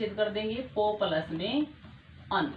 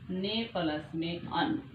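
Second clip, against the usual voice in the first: slow spelled-out split; 3 semitones lower, 4 dB quieter, slower than usual. Shown as a demonstration. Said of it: "हम इस शब्द को पढ़ेंगे".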